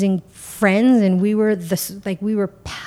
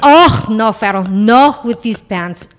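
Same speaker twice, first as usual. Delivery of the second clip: loud, high, laughing mock Italian mother; mock Italian mama; 5 semitones higher, 9 dB louder, slower than usual. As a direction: play the scandalised Italian aunt, laughing. Mocking Italian relative's disapproval.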